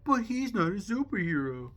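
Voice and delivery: high, loud mock objection; mock protest. Objecting to Jack Jack in a retold argument, high mock protest.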